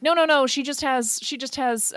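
high, loud opening protest, easing off; hasty denial. Acted. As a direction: play a mom insisting nothing is wrong. Mom waves off worry about daughter.

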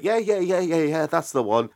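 quick high run of eager yeahs; feigned recognition. Acted. Mimics bluffing recognition of someone.

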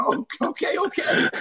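hushed, whispery retreat, laughing at the end; meek backing down. Retold or imitated. Young player backing off from an angry teammate, meek whisper. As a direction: give in under your breath.

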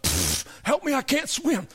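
drowning cry. Acted. Priest surfacing, drowning in lake.

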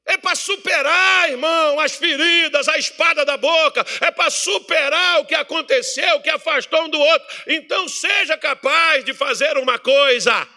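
loud, high, driving sermon voice; fiery preaching. Acted. Pastor exhorting the church to forgive, shouting. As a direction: preach it hard at the congregation.

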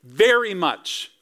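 slow, gleeful, leaning on "joyed"; joyful emphasis. Shown as a demonstration. Preacher savouring the wise men's joy, gleeful. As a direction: relish the odd grammar. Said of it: "The grammar doesn't even really work".

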